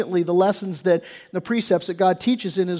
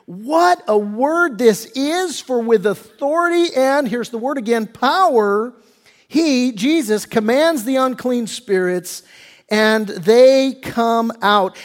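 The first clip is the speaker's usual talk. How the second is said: amazed crowd; 3 semitones higher than usual. Acted. Crowd amazed at Jesus's authority, slow. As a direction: marvel at his power. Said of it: "they were all amazed".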